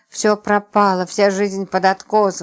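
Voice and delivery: usual speaking voice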